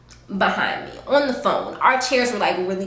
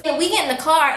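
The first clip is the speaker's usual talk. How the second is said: usual speaking voice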